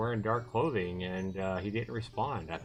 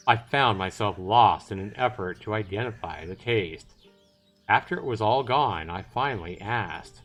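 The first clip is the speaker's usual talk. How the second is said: emphatic, measured reading; story narration; 4 dB louder than usual. Acted. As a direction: narrate it out to an audience. Reads the story narration aloud.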